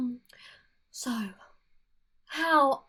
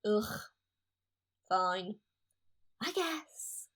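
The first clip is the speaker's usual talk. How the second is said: grudging; 3 semitones lower, 7 dB quieter, slower than usual. Acted. Grudgingly agreeing to meet Alex.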